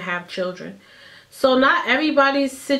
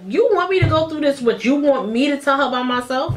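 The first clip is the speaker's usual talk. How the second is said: higher-pitched, incredulous retort; indignant protest; 5 semitones higher, 3 dB louder than usual. Retold or imitated. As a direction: retell it as an indignant challenge. Acted protest to boyfriend.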